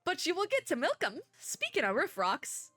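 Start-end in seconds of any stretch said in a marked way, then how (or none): 0.0-1.2 bad Southern accent. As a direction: read it as a folksy Southerner, badly. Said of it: "the really bad Southern accent".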